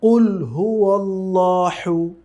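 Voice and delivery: slow drawn-out কুল হুয়াল্লাহু, the হা weak; wrong recitation. Shown as a demonstration. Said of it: "দুটিই ভুল".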